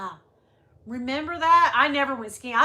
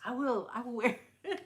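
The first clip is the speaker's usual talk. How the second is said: higher mock-French diva, breaking into laughter; badly faked French accent, amused; 3 semitones higher, faster than usual. Imitating singer who loves the shoe, bad French accent. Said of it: "She's like".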